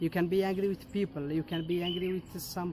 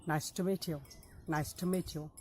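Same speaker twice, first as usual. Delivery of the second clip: words linked in a quicker run; faster; 4 dB quieter than usual. Shown as a demonstration. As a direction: say it quickly as one phrase. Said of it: "if you say it faster".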